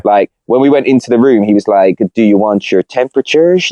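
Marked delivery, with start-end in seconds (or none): 2.1-3.7 put-on hotel porter in a Dutch accent. Hotel porter asking guests, in a Dutch accent. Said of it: "It's my Dutch accent".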